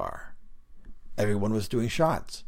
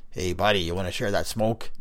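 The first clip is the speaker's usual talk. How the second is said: raspy voice calling out. Acted. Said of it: "I heard a raspy voice call out".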